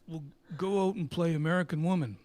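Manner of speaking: loud, put-on bossy voice; manager's order. Manager telling the band what to play, loud and bossy. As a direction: settle it with a command.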